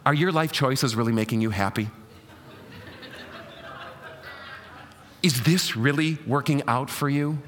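lightly voiced mother warning about friends; a touch of an anxious mother; worried mom. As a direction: nag and plead like a mom. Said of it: "how he moms them".

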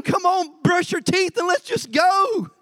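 a fed-up parent yelling up the stairs; exasperated parent shout. Retold or imitated. Parent hurrying dawdling kids.

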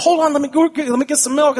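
man with a mouthful of sandwich stalling the caller; mouth-full guy. Retold or imitated. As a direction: talk around a huge bite of sandwich. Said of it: "He goes".

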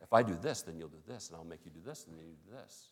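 preacher imitating the devil's manipulative bargaining. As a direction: voice the devil plotting, drawing them in quietly. Preacher voices the devil scheming.

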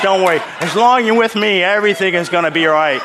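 loud, comic Arkansas reassurance; imitated Arkansas accent. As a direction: play a protective bodyguard from Arkansas. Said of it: "he was from Arkansas".

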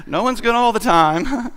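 acted-out mother covering for her son; shooing mother. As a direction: gently correct your child, hammed up. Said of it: "sort of shooing him away".

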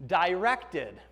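DIRECTED set apart and carefully pronounced; emphasis on DIRECTED. Real, not acted. Preacher explains what the mind is meant to be, emphasis on DIRECTED. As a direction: land deliberately on the word "directed". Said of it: "putting the emphasis on".

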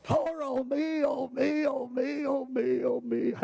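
hammed-up pity party moan; sing-song self-pitying wail, mocked. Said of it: "He was having a pity party".

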